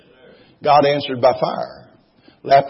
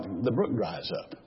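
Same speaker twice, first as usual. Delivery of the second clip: much softer, low and slow; quiet; 6 semitones lower, 11 dB quieter than usual. Real, not acted. Preacher telling the congregation hard times end, hushed. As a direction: let it drop, hushed and slow. Sermon point said softly.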